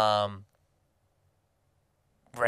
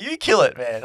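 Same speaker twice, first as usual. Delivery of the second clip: high, loud pleading shout; panicked refusal; 3 semitones higher, 6 dB louder than usual. Retold or imitated. Yelling back to his flatmate, high panicked refusal. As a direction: yell it back, squeamish and scared.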